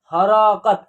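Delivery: हरकत said as ha-ra-kat with a full vowel after r; wrong pronunciation. Shown as a demonstration. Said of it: "ऐसे नहीं होगा".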